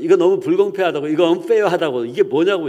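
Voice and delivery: acted loud protest; indignant complaint. Jobless Bruce railing at God over unfairness, acted indignant complaint. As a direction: rail upward at the unfairness.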